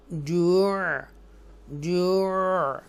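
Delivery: जू' drawn out, ending in a stop. Shown as a demonstration. Teacher shows students the pause on जू', slow then stopped. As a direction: stretch जू' and cut it off at the end. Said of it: "ऐसे हम पढ़ेंगे".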